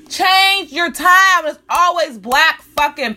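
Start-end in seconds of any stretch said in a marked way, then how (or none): 0.1-1.5 slow emphatic order. Real, not acted.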